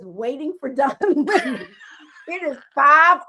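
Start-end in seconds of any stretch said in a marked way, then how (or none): 0.0-1.7 laughing read. Retold or imitated. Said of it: "it says".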